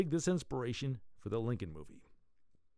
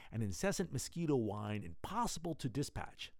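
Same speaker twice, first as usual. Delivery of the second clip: story narration; 3 dB quieter than usual. A narrator's reading. Reads serial story aloud.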